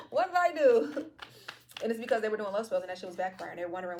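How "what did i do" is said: high, loud, drawn-out mock protest; hammed-up bewilderment. Reader voices the baffled spell-caster, loud high mock protest. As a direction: wail it high like a baffled innocent.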